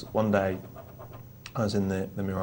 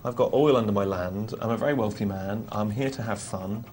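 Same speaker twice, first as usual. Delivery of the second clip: posh English gentleman. Retold or imitated. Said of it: "changed this American cowboy into being the uppermost class of English gentleman".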